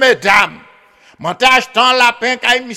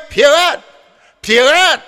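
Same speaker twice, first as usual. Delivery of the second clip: calling out; 4 semitones higher than usual. Retold or imitated. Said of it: "je m'a crié".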